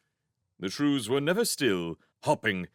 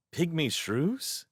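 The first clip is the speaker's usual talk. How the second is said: questioning echo; 6 semitones higher, slower than usual. Acted. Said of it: "echoed the name questioningly".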